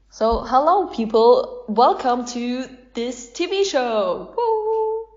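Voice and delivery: cheesy TV host with a whoop; TV show host. Acted. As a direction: welcome the audience like a showbiz presenter. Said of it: "you are in a T V expert round".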